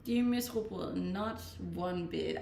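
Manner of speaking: ordinary talk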